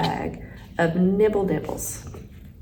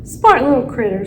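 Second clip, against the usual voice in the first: chuckling; 4 semitones higher, 7 dB louder than usual. A narrator's reading.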